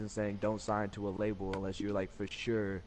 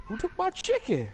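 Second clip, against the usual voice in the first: yelling across the room; 7 dB louder than usual. Real, not acted. Someone took his chicken.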